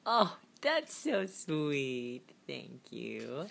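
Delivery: slow, tender praise; touched. Real, not acted. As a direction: melt a little at the kiss. Child blows her a kiss.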